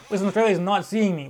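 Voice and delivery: loud, lively declaration; emphatic refusal. Real, not acted. Ruling out Perth for next event, loud refusal. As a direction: announce it loudly, fresh from laughing. Repeats refusal two ways, laughing first.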